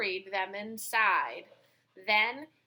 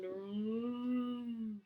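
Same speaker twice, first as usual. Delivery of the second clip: cow moan; 8 dB quieter than usual. Acted.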